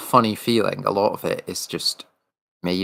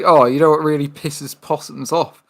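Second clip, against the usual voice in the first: Irwin impression; 6 semitones higher than usual. Steve Irwin impression about possums.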